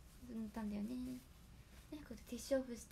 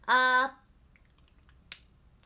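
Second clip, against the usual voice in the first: voice test; 18 dB louder than usual. Real, not acted. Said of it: "これしたらね".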